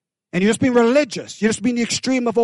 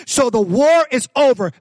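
triumphant proclamation; 6 semitones higher, 6 dB louder than usual. Real, not acted. Preacher proclaiming victory.

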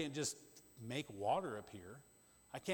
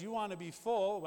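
voicing God; 6 semitones higher, 4 dB louder than usual. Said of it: "God says".

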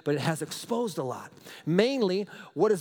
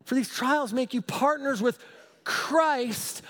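raised, fervent Bible reading; scripture reading; 6 semitones higher than usual. Acted. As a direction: read the verse like good news to the flock. Reads scripture with fervour.

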